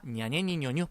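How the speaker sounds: "냐, 니에, 니, 뉴, 뉴" run together quickly; quick blended pronunciation. Shown as a demonstration. Teacher showing students the sounds joined, quick blended pronunciation. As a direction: blend "냐, 니에, 니, 뉴, 뉴" into one quick string. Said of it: "빠르게 발음해서".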